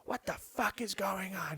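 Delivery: high, slow mock outrage; imitated indignant mom. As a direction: do an indignant mother demanding answers. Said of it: "My mom's just one of those".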